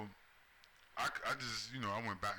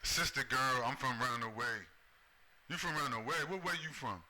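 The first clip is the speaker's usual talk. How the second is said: mocking imitation; 2 semitones higher than usual. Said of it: "Negro buck dance imitation".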